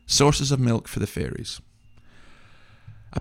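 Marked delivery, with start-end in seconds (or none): 0.1-1.6 mocking disbelief. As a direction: let the absurdity hang on each word. Repeating the claim in disbelief.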